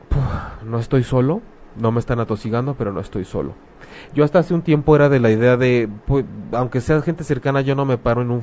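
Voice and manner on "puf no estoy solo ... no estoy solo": relieved mourner. Retold or imitated. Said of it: "es como".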